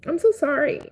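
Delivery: tearful apology, pitch lifted a little; teary-eyed. Real, not acted. Streamer consoling a bereaved stranger, teary-eyed. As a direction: apologise while holding back tears. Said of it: "I'm getting teary-eyed".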